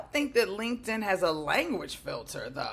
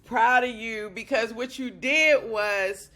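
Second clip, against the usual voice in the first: louder, higher and slow, bursting with pride; overjoyed praise; 4 semitones higher, 7 dB louder than usual. Real, not acted. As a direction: gush over her like a proud coach. Coach overwhelmed with pride.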